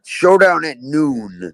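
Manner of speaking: western showdown voice. Pretend. Joking about a duel.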